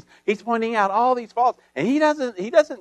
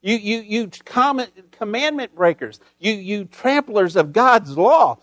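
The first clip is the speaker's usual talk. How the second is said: stinging accusation; 2 semitones higher than usual. Retold or imitated. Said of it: "with these stinging accusations".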